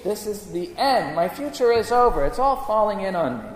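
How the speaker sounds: acted, pleading questions to God; despairing complaint. Believer files complaints with the Lord God, despairing. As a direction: file an anguished grievance, hammed up a little. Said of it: "when we file our complaints".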